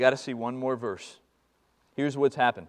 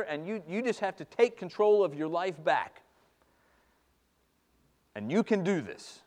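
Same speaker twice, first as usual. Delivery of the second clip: louder bootstraps pep talk; mock pep talk; 5 dB louder than usual. Preacher mocking the bootstraps advice, louder pep talk. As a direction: push them to tough it out.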